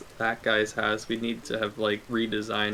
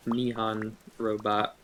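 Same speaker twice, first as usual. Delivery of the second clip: lovely; slower than usual. Shown as a demonstration. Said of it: "the way that sounded as lovely as possible".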